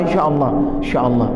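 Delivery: mock evasive mumble, quick and dropped; hurried insya Allah, insya Allah with a wave-off feel; fast dismissive repeat. Shown as a demonstration. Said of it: "Kasih begini tangannya dah".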